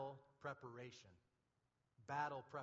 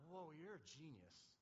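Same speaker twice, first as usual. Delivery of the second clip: awed praise to God; 7 dB quieter than usual. Retold or imitated. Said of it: "that's how I talk to him".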